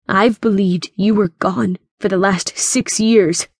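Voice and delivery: mildly hardened, hurt voice; hardening, cracking. Acted. West confronts the grandfather gone six years, hardening voice. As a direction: accuse him with a touch of hurt. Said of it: "his voice hardening even though it cracked".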